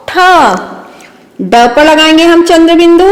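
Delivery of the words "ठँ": ठ with the vowel hummed through the nose; nasalized vowel. Shown as a demonstration. Teacher showing children chandrabindu, nasalized ठ. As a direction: draw out ठ as a nasal ठँ. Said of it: "ठ पर लगाएंगे तो".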